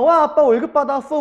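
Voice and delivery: put-on high-pitched child's cheer; excited children. Children greeting dad's long-awaited pay, excited. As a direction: cheer like a thrilled kid. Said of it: "애들은 얼마나 신났겠어요".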